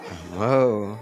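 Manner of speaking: laughing amazement. Real, not acted. Laughs after the shouting.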